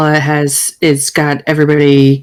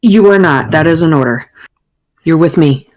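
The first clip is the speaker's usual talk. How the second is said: firm commander giving an order; brooking no argument. Acted. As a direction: lay down the order, measured and controlled. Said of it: "not going to brook any argument".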